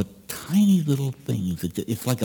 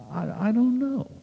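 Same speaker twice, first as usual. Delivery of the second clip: high, halting, mournful hesitation; a dejected monk who can't say why; downcast monk; 13 semitones higher than usual. Acted. Trappist monk answering the priest, lost and sad. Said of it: "I, I, I'm just down".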